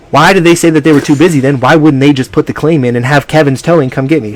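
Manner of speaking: worked-up, incredulous retelling; retold exasperation. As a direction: demand to know why, voice lifted. Retelling exasperated question to tow guy.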